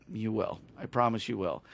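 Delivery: hushed, retold promise; gentle reassurance. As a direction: promise it softly, lightly acted. Retold promise to the doubting wife.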